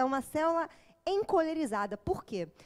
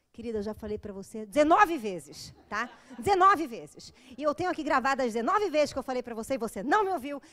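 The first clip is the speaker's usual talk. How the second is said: louder, hammering "dezenove vezes"; the reply you wish you could snap, louder; exasperated retort; 3 semitones lower, 5 dB louder than usual. Retold or imitated. Fed-up psychologist to forgetful client, louder mock exasperation. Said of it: "tem vontade de falar assim".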